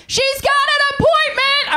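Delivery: high, slow, put-on clerk voice; mock receptionist voice. Front desk staff scolding the comic, high mock voice. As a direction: announce it like a shocked receptionist. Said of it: "they were like".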